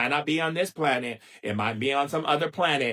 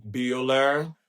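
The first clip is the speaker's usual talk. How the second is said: droning teacher; much slower than usual. Retold or imitated. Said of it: "I go back to Ferris Bueller's Day Off".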